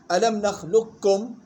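slow نخلقكم as "nakhlukkum"; full merging. Shown as a demonstration. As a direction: merge qaf wholly into kaf in نخلقكم. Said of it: "وحكم الإدغام الكامل". (نخلقكم بإدغام القاف في الكاف إدغامًا كاملًا)

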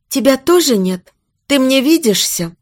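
high, fragile questioning; mildly quavering, anxious; trembling voice. Acted. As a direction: ask fearfully, unsure he is real. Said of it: "спросила дрожащим голосом".

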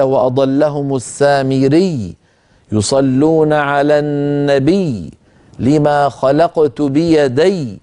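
slow, chanted verses; slow Quran recitation. Shown as a demonstration. Teacher recites examples of doubled ya slowly. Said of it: "كل هذه الياءات المشددات".

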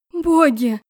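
startled loud cry, pitch up. Acted. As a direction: shout in horror at her reflection. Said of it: "закричала я".

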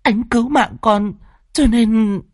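high, halting explanation; young daughter pleading her lover's case through tears; tearful confession. Acted. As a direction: confess timidly in broken pieces. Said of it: "Tâm hai mắt đẫm lệ".

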